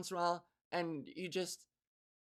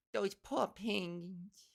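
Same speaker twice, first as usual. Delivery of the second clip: very slow New York "poor", r dropped; accented mock pity; much slower than usual.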